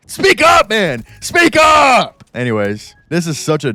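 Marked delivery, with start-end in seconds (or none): 0.1-2.2 much higher, loud yell at himself; frustrated self-scolding shout. Real, not acted. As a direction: bark the order at your own cowardice.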